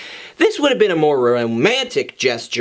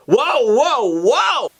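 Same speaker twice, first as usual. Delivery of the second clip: alarmed; 6 semitones higher, much slower than usual. Acted. Friends react to crude comparison.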